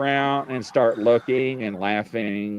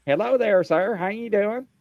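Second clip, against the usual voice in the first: high, chirpy mock greeting; imitating the lady; 10 semitones higher than usual. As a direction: sing it out high like a cheery receptionist. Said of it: "She's like".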